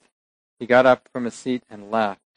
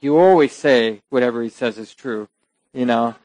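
mock rant; 4 dB louder than usual. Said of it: "goes on a little rant".

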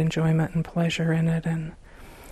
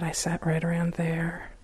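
whispered aside; 7 dB quieter than usual. Real, not acted. Aside recalling her old seat.

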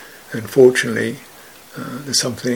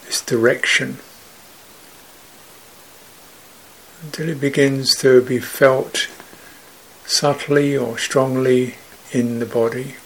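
sparse, measured phrases with long silences between; guided meditation; 3 dB quieter than usual. Real, not acted. Teacher guiding meditators to feel openness in the body, calm meditative voice. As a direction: calmly guide them, leaving room after each phrase.

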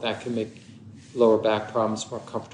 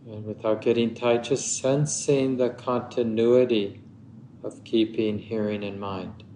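unhurried meditation guidance with long pauses; measured meditation teacher, phrase by phrase; guided meditation. Acted. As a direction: guide listeners gently into stillness, leaving long silences.

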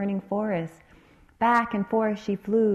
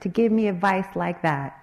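coughing parrot; 4 dB louder than usual. Acted. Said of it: "coughed the little parrot".

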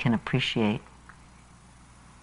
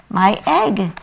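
shouted; 7 semitones higher, 3 dB louder than usual. Acted. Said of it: "shouted Horton".

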